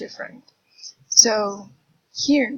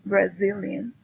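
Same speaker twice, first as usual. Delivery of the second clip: Brazilian with the stress on "zil"; Brazilian, leaning on "zil", rising at the end; stress on second syllable. Shown as a demonstration. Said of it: "the stress is in Z".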